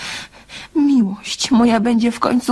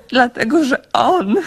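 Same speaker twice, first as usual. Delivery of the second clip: words giving way to a sob; tearful confession cut short; starting to cry. Acted. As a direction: let the sentence break into crying. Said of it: "Niech pani nie płacze".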